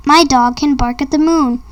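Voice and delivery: ordinary delivery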